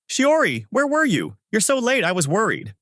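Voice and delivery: high, fretful reproach; worried scolding. A narrator's reading. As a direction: scold out of worry, pitched high without shouting.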